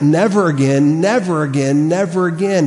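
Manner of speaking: "Never again" three times, stressing NEVER, rising to the last; emphatic repetition. Shown as a demonstration. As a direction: drive home each "never again", building in pitch. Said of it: "and it's emphatic".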